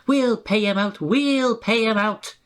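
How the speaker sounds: high, slowing, sly chant; the coaches plot revenge; scheming coaches. A narrator's reading. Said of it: "grumbled the coaches".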